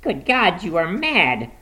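high-pitched horrified exclamation; appalled old man; aghast. A narrator's reading. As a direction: recoil in shock at her madness. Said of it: "he cried aghast".

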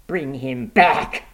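put-on insistent old mother; desperate cry. A narrator's reading. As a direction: cry out slowly, demanding your son back. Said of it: "cried the old woman".

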